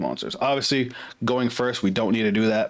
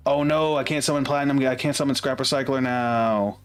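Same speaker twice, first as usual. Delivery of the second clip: dismayed; 4 semitones higher than usual. Real, not acted. Realizes a misplay.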